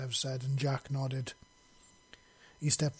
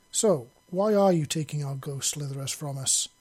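demanding; 6 dB louder than usual. Acted. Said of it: "Ciri demanded".

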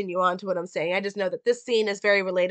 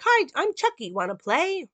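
Chucky voice; 9 semitones higher than usual. Retold or imitated. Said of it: "He's like".

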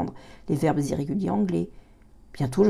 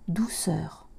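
whisper. A narrator's reading. Whispered comforting word.

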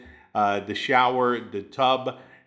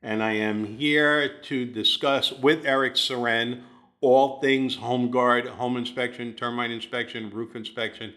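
all in one breath. Real, not acted. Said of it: "I spit that out without taking a breath".

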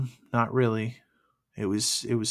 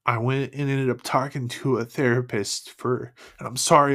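crying; 4 dB louder than usual. Real, not acted. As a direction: voice breaking, close to tears. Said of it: "I'm, I'm crying".

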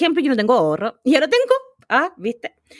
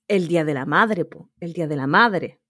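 voz grave y lenta de ultratumba, apenas insinuada; 5 semitones lower than usual. Retold or imitated. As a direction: como un espíritu que habla desde la tumba, en tono más bajo. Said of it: "llegó una voz de ultratumba, ahí como con el tono de la Soajana". (voz de ultratumba imitada, algo más grave)

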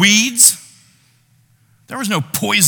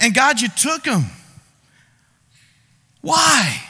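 pleading grief; 2 semitones higher than usual. Pretend. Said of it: "it looks a little bit like this".

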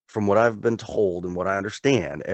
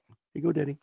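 put-on higher little-kid voice; three-year-old son; 7 semitones higher, 4 dB quieter, much faster than usual. Son bringing daddy a soda, imitated high toddler voice. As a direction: imitate a small child handing something over. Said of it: "my son, you know, he's three".

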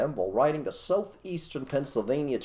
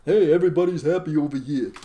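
mock cheerful; 3 semitones higher, 7 dB louder than usual. Mock utopian voice.

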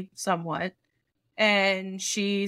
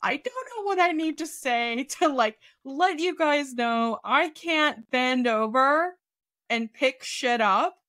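exasperated plea; 5 semitones higher, slower than usual. Retold or imitated. Exasperated outburst at doctors.

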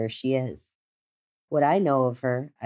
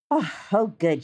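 a higher, relieved "oh" settling down; 6 semitones higher than usual. A narrator's reading. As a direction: let out mild relief as the character. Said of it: "she looks relieved".

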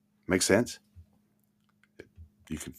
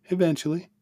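Eventually much higher, stretched out and teasing; mocking echo; 13 semitones higher than usual. Shown as a demonstration. The teacher mocking the vague timeline with a high, stretched Eventually. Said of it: "when was she gonna get to that".

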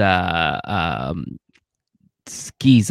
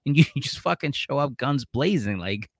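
exasperated friend; 6 semitones higher, 4 dB quieter than usual. Retold or imitated. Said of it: "And he's like".

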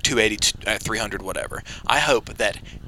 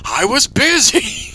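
mock sheepish; 10 semitones higher, 6 dB louder, slower than usual. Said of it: "he's like".

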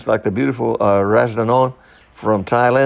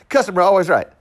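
higher, laughing mock Asian accent; 6 semitones higher than usual. Comic reciting the customer rule, laughing mock Asian accent. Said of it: "I'm talking now like if I were Asian".

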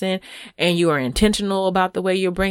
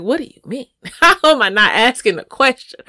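bewildered; 5 semitones higher, 3 dB louder than usual. Retold or imitated. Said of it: "I'll be bewildered".

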